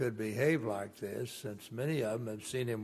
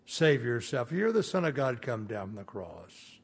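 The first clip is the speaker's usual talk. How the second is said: jeering taunt. Retold or imitated. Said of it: "were hurling abuse at him".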